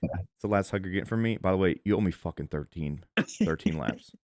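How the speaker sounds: soft, hushed stage whisper. Acting out whispering a threat into a player's ear during a hug: acting out a whisper. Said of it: "It's a hug and whisper".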